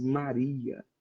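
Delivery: sweet calling voice. Describing the intonation with which Jesus calls her, acting out a sweet call. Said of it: "aquela voz doce".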